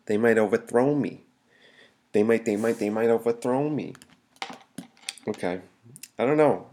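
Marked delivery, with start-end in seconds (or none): 0.0-1.2 replaying the odd lilt on "overthrow"; trying out a quirky "overthrow me"; odd emphasis repeated. Shown as a demonstration. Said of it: "I don't know why I said it like that". 2.1-3.9 halting restarts into a lilting "overthrow"; stop-start, then quirky "overthrow me"; toying with odd emphasis. Shown as a demonstration. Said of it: "I don't know why I said it like that".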